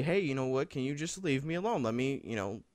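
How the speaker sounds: softly retold polite plea; polite request. Student asking to be left alone, polite request. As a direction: ask politely, keeping it soft. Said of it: "just telling him politely".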